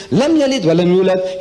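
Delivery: quick clipped Arabic recitation, telegram-like; brisk Arabic chant-like reading; rapid Quran recitation. Retold or imitated. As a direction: rattle off the verse fast in Arabic. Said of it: "he doesn't talk like this".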